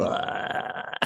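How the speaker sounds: quiet unvoiced "ah"; imitating co-host. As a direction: mimic a listless, voiceless sigh. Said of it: "You were still".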